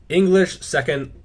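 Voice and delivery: breaking into a laugh mid-phrase. Real, not acted. Host reading a viewer's note about English, laughing. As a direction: let a laugh slip out while reading. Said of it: "I'm sorry for laughing".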